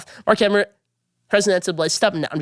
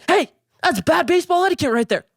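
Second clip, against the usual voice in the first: high, lightly mocking voice of a fussy manager; 9 semitones higher than usual. Vlogger mocking the Rangers manager, high prissy mimic. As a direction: scoff it out like a stuffy old-school manager. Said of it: "And Bob Woodward says".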